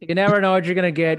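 Forrest Gump impression. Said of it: "Here comes my Forrest Gump".

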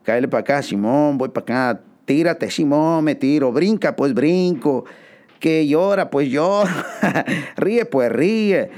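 lightly voiced film-set exchange; retold director orders. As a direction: play bossy director and eager extra. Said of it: "y le dijeron".

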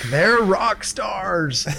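slow stoner drawl; lightly voiced stoner; Snake OG voice. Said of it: "you sounded just like him right there".

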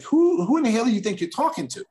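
a retold flare of anger; mock indignant retort. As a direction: retell the comeback with rising heat. Retold angry retort to bully.

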